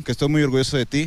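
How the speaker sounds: usual speaking voice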